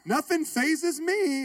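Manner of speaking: wife's put-on calm, gently mocked; mock holy. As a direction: play it off as pure and serene. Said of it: "She played it off like".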